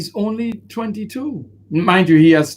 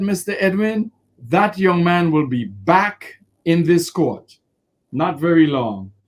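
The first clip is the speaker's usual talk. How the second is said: calmly. Retold or imitated. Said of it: "very calmly".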